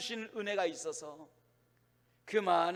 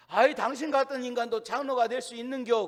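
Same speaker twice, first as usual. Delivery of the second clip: mock indignant retort, a little louder; retold indignation; 4 semitones higher, 6 dB louder than usual. Elder retorting to a rude caller, mock indignation. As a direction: fire back in mock outrage. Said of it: "너무너무 화가 나게".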